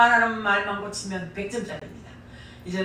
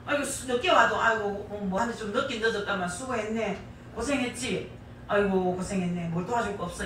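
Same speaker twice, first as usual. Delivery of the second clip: soft caring husband demo. Shown as a demonstration. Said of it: "이러면 얼마나 좋겠습니까".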